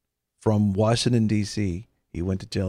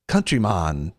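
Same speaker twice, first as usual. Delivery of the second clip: rising, louder plea to a mumbler; exasperated mock plea; 3 semitones higher, 3 dB louder than usual. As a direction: plead in mock desperation to understand him. Acted plea to hard-to-understand man.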